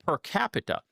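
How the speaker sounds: high, dopey mocking voice; mocking dimwit. Mocking critics who call per capita magic, in a high dopey voice. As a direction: play the confused critic as a high-voiced dope. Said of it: "then they'll go".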